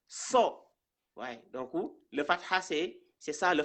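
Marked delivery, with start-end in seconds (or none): 0.1-0.7 "so" held long on a rounded O; emphatic so sound. Shown as a demonstration. Teacher repeating the correct reading, long "so". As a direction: draw out "so" with O, not A. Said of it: "On dit so".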